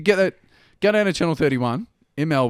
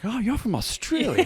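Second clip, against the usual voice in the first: higher, slower, delighted mock American; excited American tourist; 8 semitones higher, 3 dB quieter, slower than usual. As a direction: gush like a thrilled tourist. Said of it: "this guy was like".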